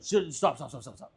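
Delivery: half-hearted imitation of panicked pleading; mock wigging out. Man trying to halt the angry driver, mock wigging out. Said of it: "he starts wigging out".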